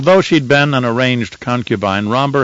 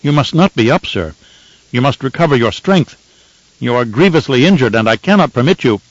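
alarmed scolding. Acted. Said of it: "alarmed voice carried a scolding tone".

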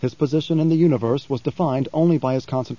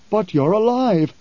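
a louder, slower, insistent cry; louder exclamation; 6 semitones higher, 4 dB louder, slower than usual. Acted. Halleck insisting to Paul, louder. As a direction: push it out, he can't hold it in. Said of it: "Halleck spoke louder now".

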